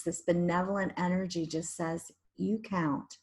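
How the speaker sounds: guided meditation. Shown as a demonstration. Leads a guided relaxation meditation.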